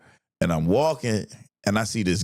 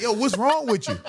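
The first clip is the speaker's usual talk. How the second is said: high, amused mock confrontation; retold incredulity; 11 semitones higher than usual. Homie questioning his high friend, incredulous. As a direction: act baffled, pitched way up.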